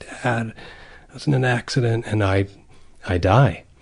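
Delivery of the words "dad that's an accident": faint, barely audible, very weak feeble voice. Retelling a fantasy of answering the phone to their father after an accident: retelling in a very weak voice. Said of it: "in a very weak voice".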